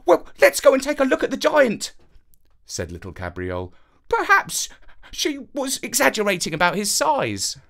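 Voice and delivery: a perky dog with a plan; little dog. A narrator's reading. Little dog coaxing master to see the giant, high and perky.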